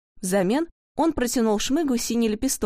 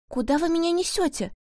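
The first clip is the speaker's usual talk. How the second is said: touched; 7 semitones higher than usual. Acted. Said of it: "спросил растроганный Павлик".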